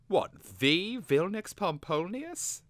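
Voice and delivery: high, loud astonished question; blurted out. A narrator's reading. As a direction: blurt it out, stretching the famous name. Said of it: "Twig blurted out".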